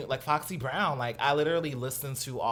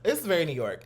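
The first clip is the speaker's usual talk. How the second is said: louder fake New York accent; 2 semitones higher, 4 dB louder than usual. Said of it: "my little fake New York accent".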